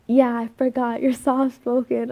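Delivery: retold loud remark. Retelling his remark that the whole echoing place could hear, mock loud. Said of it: "hella loud where, like, everyone could hear".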